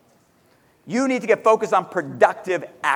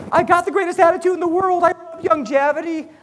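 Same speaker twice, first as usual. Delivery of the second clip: mock boasting; 6 semitones higher than usual. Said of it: "So if you're telling me".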